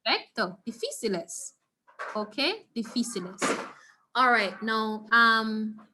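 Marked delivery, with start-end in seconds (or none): 0.7-1.5 "Difíciles" with the stress on fí, di-FI-ci-les. Shown as a demonstration. Teacher models "Difíciles" softly for students. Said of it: "how do we pronounce this word?". 2.8-3.4 "Difíciles" with the stress on fí, di-FI-ci-les. Shown as a demonstration. Teacher models "Difíciles" softly for students. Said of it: "how do we pronounce this word?".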